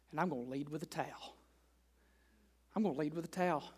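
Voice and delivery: soft, sincere commitment to serve; quiet resolve. Retold or imitated. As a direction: promise it low and humble. Voicing a committed believer.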